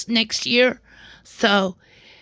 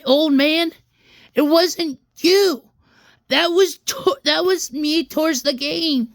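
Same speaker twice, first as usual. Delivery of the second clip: indignant retort; 4 semitones higher than usual. Retold or imitated. Retold heated retort to father.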